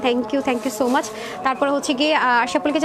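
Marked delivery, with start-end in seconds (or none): 0.1-1.1 slow, lightly mimicked thank-you from the customers; imitating the customers. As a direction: drag out the thanks the way every customer says it. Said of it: "সব আপুরাই বলেন". (সব আপুদের ধীর ধন্যবাদের হালকা নকল)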